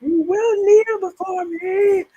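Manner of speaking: slow, high, lightly voiced General Zod; a hint of the dark lord commanding. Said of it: "General Zod".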